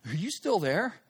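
tentative question, rising at the end; sheepish. Retold or imitated. Caller checks after a long silence, sheepish. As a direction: ask sheepishly, unsure anyone is listening. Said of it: "I kinda sheepishly said".

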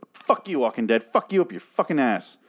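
aggressive cursing outburst, pitch jumping up; fed-up, aggressive send-off. Real, not acted. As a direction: curse out the show with real venom. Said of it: "Oh, that was aggressive".

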